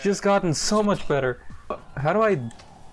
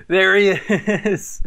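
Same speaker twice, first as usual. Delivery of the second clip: slow drawn-out call; much slower than usual. Real, not acted. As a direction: stretch it out slowly. Same phrase drawn out.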